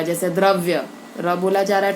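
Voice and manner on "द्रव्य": द्रव्य with the R clearly sounded after D; distinct R in the opening cluster of द्रव्य; R fully sounded. Shown as a demonstration. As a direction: say द्रव्य giving the R its full value. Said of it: "र पूरे अक्षर की तरह बोला जाएगा".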